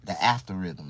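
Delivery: "after rhythm" said in place of algorithm; mispronouncing. Shown as a demonstration. Streamer guesses the word aloud, saying "after rhythm". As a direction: say "The after rhythm" as the word's real name. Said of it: "Am I pronouncing it right?".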